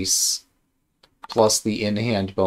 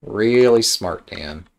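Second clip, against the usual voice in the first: sarcastic; 4 dB louder, slower than usual. Real, not acted.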